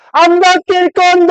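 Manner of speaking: very high, loud, slow taunting whine; high shrieking refusal; defiant Satan. Acted. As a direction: sing it out like a bratty devil. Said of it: "그러면 사탄이".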